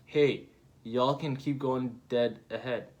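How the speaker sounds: put-on slow take on a Kansai accent. Manga character waving the group onward, slow Kansai accent. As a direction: draw out the words for a Kansai accent. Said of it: "Speaks in a heavy Kansai accent".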